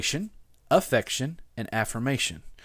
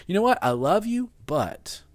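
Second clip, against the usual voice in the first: loaded "but"; 7 semitones higher than usual. Retold or imitated. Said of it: "sometimes I'll hear".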